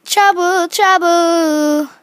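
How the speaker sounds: loud chanted trouble trouble; loud singsong. Real, not acted. Gamer teasing her Sims toddler, loud singsong.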